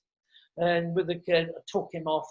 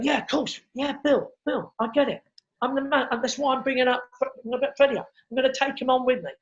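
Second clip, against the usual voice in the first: placating; 3 semitones higher than usual. Retold or imitated. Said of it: "I'm trying to go to him".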